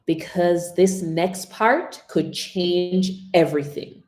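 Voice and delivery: soft "Listen closely", then slow and weighty; quiet then slow build. Shown as a demonstration. Coach models the line for students to repeat, slow build. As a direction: start hushed, then build slowly through "change everything". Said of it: "I'll give you an example and you repeat after me".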